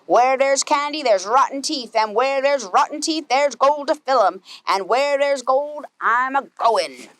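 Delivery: lightly voiced pirate captain, slowing on the last words. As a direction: growl it like a greedy sea captain. Pete's pirate refrain.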